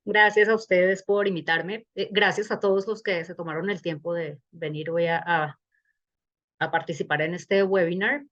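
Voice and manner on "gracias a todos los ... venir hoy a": normal talking voice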